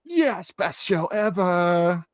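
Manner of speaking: slow, drawn-out canned praise; mock paid bot. New fake accounts praising the show, slow mock drone. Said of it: "all like".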